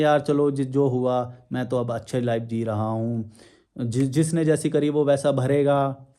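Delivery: mock sweet tone. Shown as a demonstration. Vlogger shows how kindly he could say it, mockingly. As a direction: talk like a calm saint, tongue in cheek. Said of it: "बड़े प्यार से".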